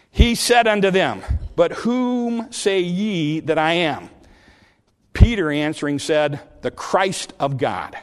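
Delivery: slow, measured Bible reading; solemn, spaced-out phrases from the pulpit; scripture reading. A narrator's reading. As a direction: read the verses aloud with deliberate weight.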